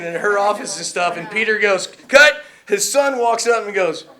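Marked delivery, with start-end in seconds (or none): 1.9-2.4 loud, raised one-word call; director calling cut. Retold or imitated. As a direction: shout it like a director halting a take.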